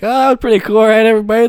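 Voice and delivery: mock enthusiasm. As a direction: play someone pleased with their stunt. Acts out coming to, addressing onlookers.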